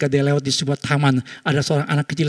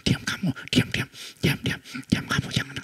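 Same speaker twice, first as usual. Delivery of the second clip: hushing whisper; 7 dB quieter than usual. Retold or imitated. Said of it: "Mamanya bilang".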